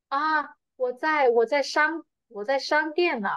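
casual phone reply. Shown as a demonstration. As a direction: play the friend on the phone. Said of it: "you can say".

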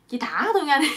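high, loud plea; acted begging. Captive begging women to untie him, high pleading. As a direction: beg loudly to be let go. Bound man begs for release.

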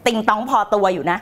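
low, cool mock boast; low deadpan boast. Coach jokes about being dotty, low deadpan boast. Joke twist on her warning.

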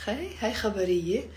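high teasing call, then fast; teasing hey. Shown as a demonstration. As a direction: tease them with a quick hey hey. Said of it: "as I said, like".

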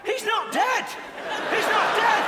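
high, loud exclamation; mock sudden realisation. Heckler suddenly remembering dad is alive, high shout. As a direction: burst out with the news.

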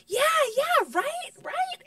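high, loud mock yeah-right; high sarcastic agreement. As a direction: brush it off, way up high. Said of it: "And I go".

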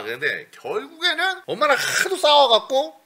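usual speaking voice

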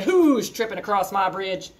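troll challenge. Acted. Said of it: "I hopped up on a bridge and I said".

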